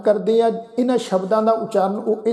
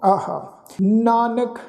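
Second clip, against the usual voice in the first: very slow, drawn-out scripture recitation; recitation demo; much slower than usual. Shown as a demonstration. Teacher moves on through the verse, slow recitation. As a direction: hold every syllable long and steady. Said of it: "ਇਸ ਤੋਂ ਅੱਗੇ ਆ ਜੀ".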